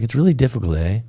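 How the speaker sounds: mildly imitated South African accent. Quoting the South African friend who sat down at breakfast, light accent. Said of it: "He's got this kind of funny accent".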